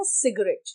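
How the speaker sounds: सिगरेट said quietly as spoken, sig-ret; how the word is spoken aloud; spoken form. Shown as a demonstration. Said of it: "सिगरेट बोलते हैं". (सिगरेट जैसे बोला जाता है, धीमे)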